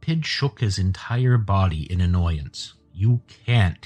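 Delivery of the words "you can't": put-on measured, as if explaining to a child; very slow. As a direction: spell it out patiently and firmly. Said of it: "he said very slowly".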